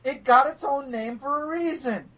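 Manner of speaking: hammed-up exasperation; exasperated correction. Acted exasperated correction of a friend.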